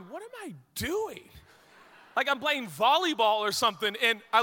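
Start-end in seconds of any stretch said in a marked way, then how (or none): 0.0-1.3 a hint of baffled inner voice, higher; bewildered self. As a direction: mutter it to yourself in disbelief. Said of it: "And I remember doing it going".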